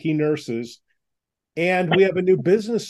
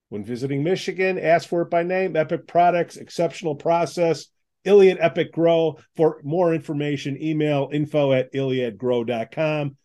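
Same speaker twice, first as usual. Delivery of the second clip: upbeat radio ad read; chipper 1950s ad. Acted. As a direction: sell it like an old-time announcer. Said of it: "I'll read this for you".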